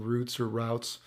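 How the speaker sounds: first "routes" like "roots", second "routes" rhyming with "outs"; two pronunciations of routes. Real, not acted. Streamer unsure which word is English, "routes" as roots, then rowts. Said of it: "Is it routes or routes?".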